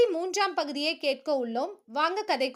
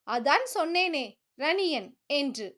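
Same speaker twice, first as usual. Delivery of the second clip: calmly. Acted. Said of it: "என்றான் நிதானமாக".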